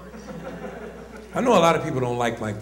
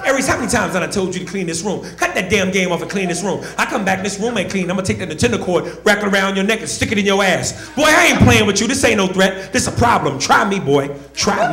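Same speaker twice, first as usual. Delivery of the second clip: loud, higher scolding mother, building to a yell; angry mom yelling; 5 semitones higher, 5 dB louder than usual. Retold or imitated. Mother yelling at her son over the game, loud angry scolding. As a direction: chew the kid out like a furious mom.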